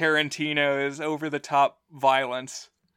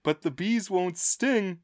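proud clunky rhyming verse; 4 semitones higher, slower than usual. Retold or imitated. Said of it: "recites a terrible poem".

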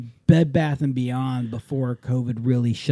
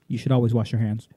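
deadpan quote; 4 semitones lower, 5 dB quieter than usual. Retold or imitated. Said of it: "it was just very like".

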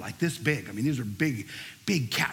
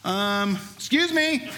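timid request; 3 semitones higher, slower than usual. Retold or imitated. Timidly asking for help, retold.

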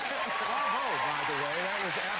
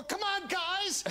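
high, drawn-out shout of come on guys; shouted Woody line; much slower than usual. Shown as a demonstration. Voice actor shows a Woody call to his friends, high shout. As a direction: call the gang to action, big and slow.

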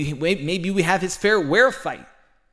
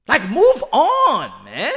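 slow, high and loud dismissal; drawn-out fed-up plea; exasperated; 7 semitones higher, 6 dB louder, much slower than usual. Real, not acted. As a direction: stretch it out like you're done with them. Dismissing nostalgic fans.

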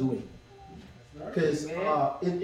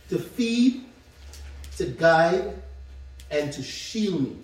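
rising, lifted phrases one by one; measured solemn reading; scripture reading; slower than usual. Acted. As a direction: read each word as a promise. Reads Psalm aloud.

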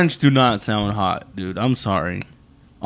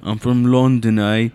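put-on British accent; 3 semitones lower, slower than usual.

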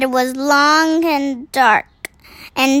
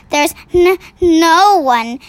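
nervous stammer. Acted. The BFG lying to the giant, nervous stammer. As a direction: trip over the words in fear. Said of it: "he stammered".

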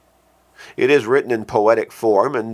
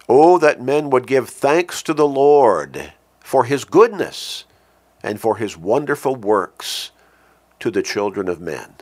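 loud rising start, falling away at the end; loud proclaiming then settling; fervent refrain; 4 dB louder than usual. Acted. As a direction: plead it to the people. Reads refrain with emphasis.

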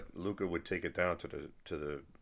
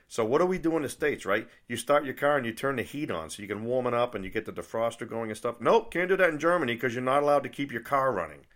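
exasperated rant; 4 semitones higher, 5 dB louder than usual. Real, not acted. Rant about not idling car.

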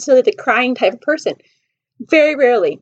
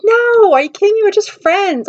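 high-pitched, incredulous protest; acted indignant denial; 8 semitones higher than usual. Woman brushing off her parents' crush question, indignant denial. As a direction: scoff it off in a raised voice.

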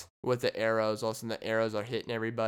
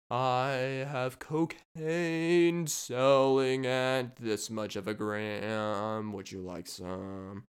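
mock dealer; much slower than usual. Acting a drug dealer song.

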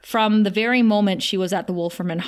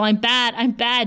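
retold shouting; 3 semitones higher than usual. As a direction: imitate desperate shouting at half strength. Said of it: "She's shouting at him".

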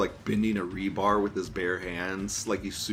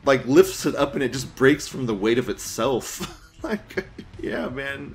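words squeezed out high and loud through laughter; can barely get it out for laughing; laughing hard; 5 semitones higher, 8 dB louder than usual. Real, not acted. Cracking up at brick video.

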